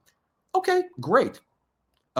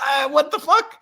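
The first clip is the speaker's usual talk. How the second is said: incredulous; 11 semitones higher, 5 dB louder than usual. Real, not acted. Reacting again to the news.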